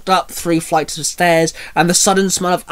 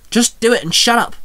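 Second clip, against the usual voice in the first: higher, urgent aside; hushed snap; 6 semitones higher than usual. Acted. Allison silences the man nearby, hushed snap. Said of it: "Allison snapped in a hushed voice".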